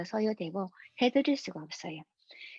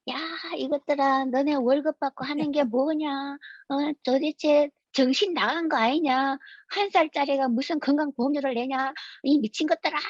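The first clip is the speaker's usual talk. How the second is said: mild mock rant, steadily pressed; retold angry complaint; 3 semitones higher than usual. Father phoning the health insurance office about baby's bill, mock-angry. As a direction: imitate a fed-up father scolding officials. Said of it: "너무 화가 나가지고".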